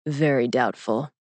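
slow, low pronouncement; fortune-telling toy, slow and low; eight ball's verdict. A narrator's reading. Magic eight ball gives its answer.

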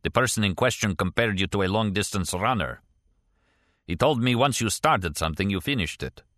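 lightly voiced Russian émigré character; a hint of a Russian accent, measured delivery; Kastner, accented former KGB man.

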